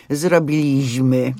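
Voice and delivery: "zrobiliśmy" slowly with the weight on the next-to-last syllable, "LIŚ"; wrong stress. Shown as a demonstration. Host showing the worst way to say it, faulty penultimate stress. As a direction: drag out "zrobiLIŚmy", stressed second from the end. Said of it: "nie ma nic gorszego niż właśnie to powiedzenie".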